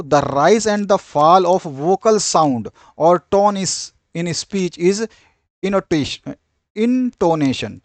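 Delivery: very slow, spaced dictation read; teacher dictating a definition slowly. Shown as a demonstration. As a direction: read it out word by word for notes.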